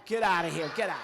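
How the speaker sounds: ordinary delivery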